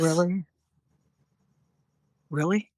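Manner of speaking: mock-offended comeback; mimicked taking it on. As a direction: snap back as if the anger is personal. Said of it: "I will mimic what it would look like".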